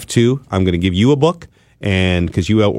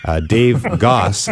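ordinary talk, nothing marked

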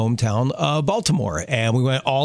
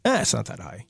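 softer, offhand scoff; dismissive; 3 semitones lower, 5 dB quieter than usual. Acted. Visitor looking up at lighthouse from below, dismissive. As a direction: brush it off quietly. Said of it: "you're just like".

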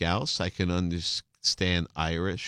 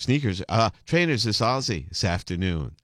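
put-on Scouse accent. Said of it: "the stage manager said".

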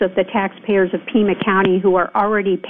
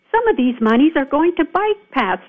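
higher-pitched imitation of exasperated analysts; 4 semitones higher than usual. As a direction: quote them with mild exasperation, pitch lifted. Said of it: "exasperated analysts are going".

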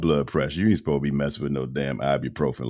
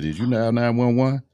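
higher-pitched, pressing question; imitated concerned wife; 8 semitones higher than usual. Wife on the phone checking on her ailing husband, imitated higher urgent questioning.

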